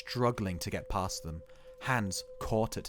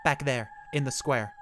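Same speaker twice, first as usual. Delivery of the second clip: raised, higher-pitched pleading insistence; urgent insistence; 5 semitones higher, 4 dB louder than usual. A narrator's reading. Ed pulls himself up to tell the cops, urgently insisting. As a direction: press the point, louder and higher. Exhausted man insists to the police.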